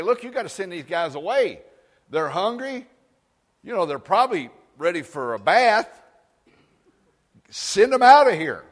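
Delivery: rising to a loud plea; urgent disciples. Acted. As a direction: push him to send the crowd away. Disciples urging Jesus.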